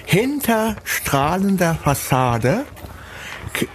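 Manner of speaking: cork in mouth. Shown as a demonstration. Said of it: "einen Korken im Mund".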